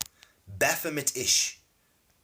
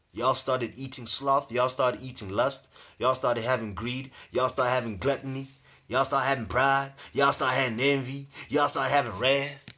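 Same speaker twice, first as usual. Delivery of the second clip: put-on American accent. Lucifer listing the sins people took up, in a light American accent. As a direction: slip into a hint of American, chanting each accusation. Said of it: "I don't know why I have an American accent".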